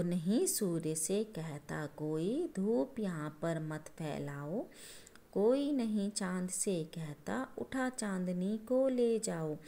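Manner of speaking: slow, measured reading of the verse; slow poem recitation. Shown as a demonstration. Teacher rereading the poem to her class, slow and measured. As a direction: read the poem aloud slowly for the children. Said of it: "दोबारा समझाती हूँ आपको ये कविता".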